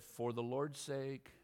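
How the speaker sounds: slow, weighty Lord's; slow emphatic phrase. Shown as a demonstration. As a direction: lead the congregation slowly. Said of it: "Say it with me".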